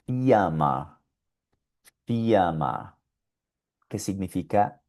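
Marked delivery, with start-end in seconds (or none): 0.0-3.0 fiamma as German Firma, R vocalized. Shown as a demonstration. Teacher modeling German Firma. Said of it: "y esto suena".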